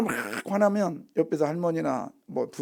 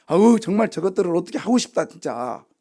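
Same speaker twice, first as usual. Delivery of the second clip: upset God, acted out; 3 semitones higher, 4 dB louder than usual. Preacher voices God upset with the people, exasperated. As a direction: vent like someone fed up with their people. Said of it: "너무 속상한데".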